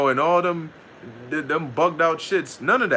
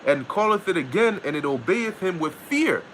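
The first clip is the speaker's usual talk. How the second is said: scripture reading; 3 semitones higher than usual. Acted. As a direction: read the verse out solemnly like scripture. Reads King James scripture aloud.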